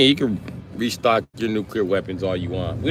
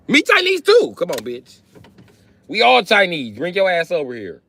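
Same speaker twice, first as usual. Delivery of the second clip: mock broken English; 3 semitones higher than usual. Mock Asian woman luring soldiers.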